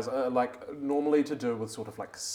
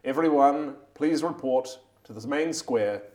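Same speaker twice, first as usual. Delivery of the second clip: town crier; 3 semitones higher, 5 dB louder than usual. Acted. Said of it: "this voice booms like thunder".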